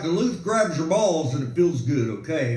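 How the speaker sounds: low, deadpan commercial pitchman; mock Duluth ad voiceover, low and flat; gruff ad voice. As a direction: drop the voice low like a rugged ad guy. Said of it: "commercials where it's like".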